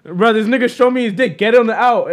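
loud mock outrage; retold indignant outburst. Telling friends about ejecting a customer, retold indignant outburst.

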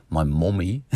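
"mommy" with an American open "ah" vowel; mock-American "mommy"; American accent. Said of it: "I'm an American actually".

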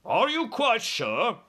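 high, slow worried question; anxious. A narrator's reading. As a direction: ask it nervously, pitch leaping up. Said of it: "the army man said anxiously".

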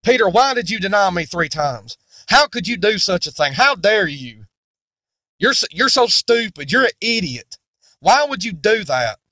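mock harsh scolding. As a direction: scold him like a furious, contemptuous master. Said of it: "Jesus does not say".

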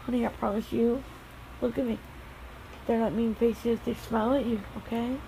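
soft, hushed comfort; reassuring. Real, not acted. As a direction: gently tell him he is safe. Mother calming frightened son.

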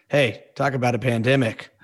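bit delivered with a punchy hey; punchy joke delivery. Pretend. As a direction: land the joke like a comedian. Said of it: "that's how you deliver a bit".

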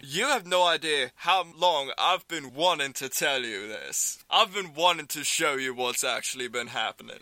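put-on southern accent. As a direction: say it like a Southern man. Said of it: "your southern accent is flawless".

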